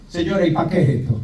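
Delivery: fast, cheeky retort; mock bratty child asking; cheeky kid. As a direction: sass the lady as a rude boy. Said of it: "yo que era tan malcriado".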